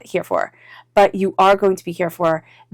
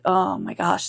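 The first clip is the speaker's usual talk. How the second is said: softer, world-weary sigh of words; mock gloomy resignation; weary Eeyore-like groaning; 6 dB quieter, slower than usual. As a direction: act out drudgery, quietly fed up. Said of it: "the drudgery, the Eeyore-ness of it all".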